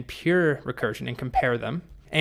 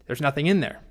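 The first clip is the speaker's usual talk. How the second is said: upset dragon; 3 semitones higher than usual. Retold or imitated. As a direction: act out an indignant dragon scolding someone. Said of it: "the dragon is very upset".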